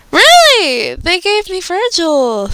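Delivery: high, loud disbelief that slows and falls; surprised delight. Real, not acted. Fan learning her quiz result, surprised high delight. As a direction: gasp it out, unable to believe it.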